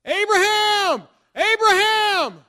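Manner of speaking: booming, drawn-out call from heaven; loud call. Retold or imitated. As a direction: call his name across a great distance, high and slow. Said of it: "he called out in a really loud voice".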